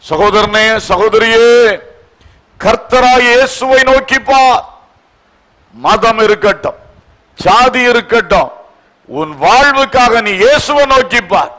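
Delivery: ringing, declamatory sermon delivery; forceful preaching. Real, not acted. Urging believers to look to Jesus, forceful preaching. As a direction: exhort the congregation in emphatic phrases.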